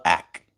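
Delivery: low-pitched "ak" with an open A; the contrasted vowel. Shown as a demonstration. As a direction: say "ak" open, like "ack".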